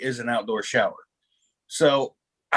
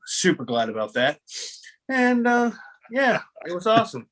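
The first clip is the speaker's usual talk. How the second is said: dryly sarcastic, feigned gladness; mock-enthusiastic, drawing out the irony; 4 semitones higher than usual. Real, not acted. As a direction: say it like you mean the opposite. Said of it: "I detect a little sarcasm".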